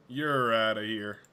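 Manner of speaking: first, milder umpire-style send-off; mock ejection call. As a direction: slowly send them packing. Ousting someone in mock umpire style.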